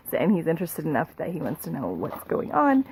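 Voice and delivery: low, groggy morning voice; just woke up, still hoarse from sleep. Real, not acted. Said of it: "Sorry, I have, like, morning voice".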